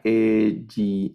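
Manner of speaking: ejinajim syllable by syllable, stressing -NA-; stress on penultimate syllable. Shown as a demonstration. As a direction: spell out ejinajim by syllables, leaning on -na-. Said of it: "palabras que son milel". (ejinajim acentuado en la penúltima sílaba)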